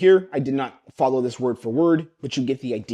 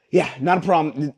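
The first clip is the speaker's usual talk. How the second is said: easy, friendly sales closer; relaxed closer; 3 semitones higher, 3 dB louder than usual. Shown as a demonstration. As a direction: brush it off like a confident closer. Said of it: "Role playing now, I'm the closer".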